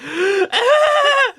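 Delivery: sharp high gasp. Retold or imitated. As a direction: gasp in shock. Retold gasp at sad movie.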